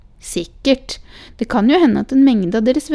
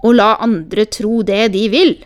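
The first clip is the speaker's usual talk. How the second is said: louder exasperated shout; 7 dB louder than usual. A narrator's reading. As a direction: shout back at the child. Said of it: "ropte farmoren".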